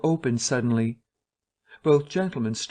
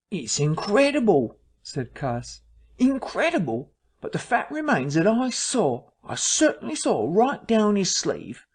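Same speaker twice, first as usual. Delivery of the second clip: insistent; 7 semitones higher than usual. Acted. Cuss insists on what he saw.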